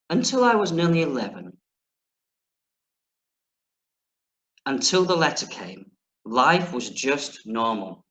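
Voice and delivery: put-on measured, deliberate reading aloud to children; story narration. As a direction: read the opening of an adventure story clearly. Reads the book aloud.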